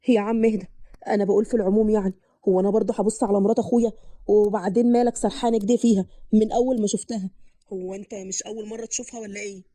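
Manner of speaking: lightly voiced man, low-pitched; defensive brother. Man tells jealous brother to calm down, defensive.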